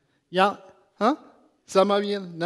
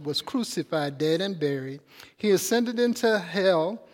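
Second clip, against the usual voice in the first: louder, measured liturgical recital; creed recitation; 3 dB louder than usual. Acted. Preacher leading the congregation through the Apostles' Creed, solemnly.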